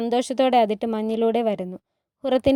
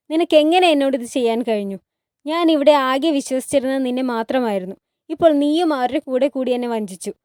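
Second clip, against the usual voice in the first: acted hurt outrage, somewhat raised voice; angry accusation; 4 dB louder than usual. Hurrem accusing her trusted friend of betrayal, angrily. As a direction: confront someone who betrayed you.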